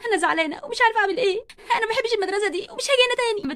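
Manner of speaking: mild sob in the voice; upset and close to crying; tearful. Acted. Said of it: "بتعيط".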